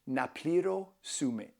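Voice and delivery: slow, careful Greek "Na pliro sume"; Greek phrase demo. Shown as a demonstration. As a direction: sound out "Na pliro sume" slowly for learners. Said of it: "you can say".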